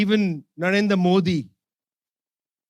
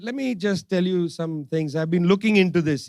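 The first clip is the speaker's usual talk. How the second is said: calm; 4 semitones lower than usual. Retold or imitated. Minister answering a US interviewer about Russian oil, calmly. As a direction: lay it out calmly, no heat. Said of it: "he said very calmly".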